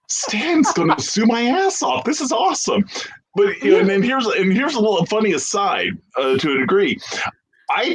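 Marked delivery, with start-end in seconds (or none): 0.1-2.9 fanboy glee, much higher and slowed; giddy excitement. Retold or imitated. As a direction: savor the thrill of the threat. Thrilled at being threatened by Stan.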